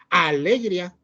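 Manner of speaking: "alegría" with the force on the opening A; stress on wrong syllable. Shown as a demonstration. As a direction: hit the first A of "alegría" hard. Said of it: "No se escucha fuerte ni en A, porque no es". ("alegría" con el golpe de voz en la primera A)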